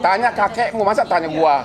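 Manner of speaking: chuckling while waving off the question; laughing brush-off. Real, not acted. Lawyer laughing off a reporter's hidden agenda question, chuckling.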